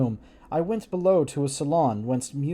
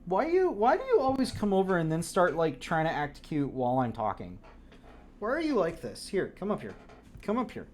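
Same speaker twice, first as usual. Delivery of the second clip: coaxing the cat; 4 dB quieter than usual. Real, not acted. Talking to the cat.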